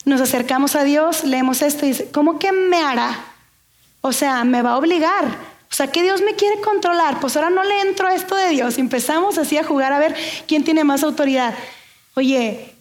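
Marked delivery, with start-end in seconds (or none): 2.1-8.8 mild mock indignation, rising higher; indignant objection. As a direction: act out a balking, put-upon believer. Acting out people objecting to God.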